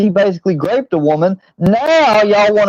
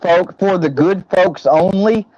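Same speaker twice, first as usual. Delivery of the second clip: mock self-righteous slogan. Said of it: "make streams like Filthy does saying".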